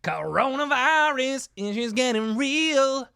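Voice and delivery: high, drawn-out slow shout. Pretend. Mock dramatic outburst after sneeze.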